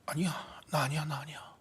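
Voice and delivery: hushed, fearful whisper; frightened denial. Retold or imitated. Peter denies knowing Jesus to the maid, frightened whisper. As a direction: deny it in a scared whisper. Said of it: "완전히 두려움에 휩싸여 버렸어요".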